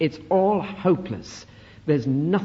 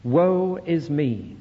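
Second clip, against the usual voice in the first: slow lament; much slower than usual. Shown as a demonstration. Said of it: "Do you feel anything?".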